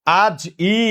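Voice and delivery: আজ ই split, with the final ই said as its own vowel; sound-by-sound breakdown. Shown as a demonstration. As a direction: break off ই after আজ. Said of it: "এই জয়ের পরে একটা রস্বই আছে".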